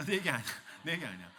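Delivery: ordinary delivery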